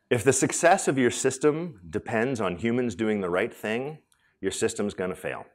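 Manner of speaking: measured, with pauses between phrases; slow quotable delivery. Shown as a demonstration. Speaker giving a line for everybody to tweet, slow and deliberate. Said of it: "say it slow so everybody can tweet it".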